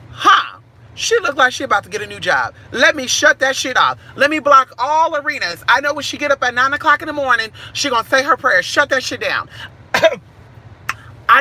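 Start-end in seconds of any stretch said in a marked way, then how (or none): 0.1-9.5 lightly voiced scheming ex; hint of a petty gossip; mock enemy voice. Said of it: "Raggedy Ann, Bob the Builder bitch said".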